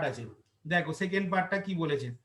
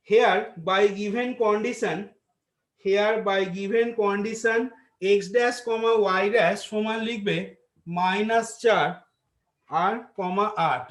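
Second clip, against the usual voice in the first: dictating; much slower than usual. Acted. Dictating given condition.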